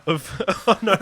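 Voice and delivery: words riding on a laugh. Real, not acted. Cracking up at the friend's cereal joke, laughing.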